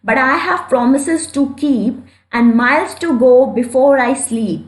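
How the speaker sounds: very slow, deliberate reading of verse; slow poem recitation. Shown as a demonstration. Teacher reciting Frost's lines slowly to the class. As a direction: recite each line slowly for students to follow.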